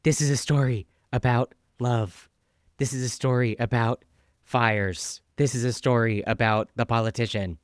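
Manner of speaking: lightly imitated breathy audiobook read; a hint of soft, breathy narration, with pauses between phrases. Co-host mimics an author reading her own audiobook, lightly soft and breathy. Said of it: "her famously very soft and breathy voice".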